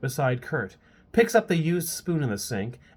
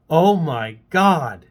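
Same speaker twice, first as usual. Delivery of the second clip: gloating; 2 semitones higher, 7 dB louder, much slower than usual. Acted. Hannah gloats.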